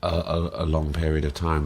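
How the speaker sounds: halting, repeated false starts; real hesitant stutter. Real, not acted. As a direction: stumble over the small words. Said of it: "I don't know why I'm stuttering".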